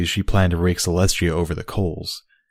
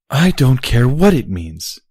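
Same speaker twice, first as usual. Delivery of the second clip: slow, higher, firm defiance; defiant; 6 semitones higher, 4 dB louder than usual. Acted. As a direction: plant your feet and refuse. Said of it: "Sparkler said defiantly".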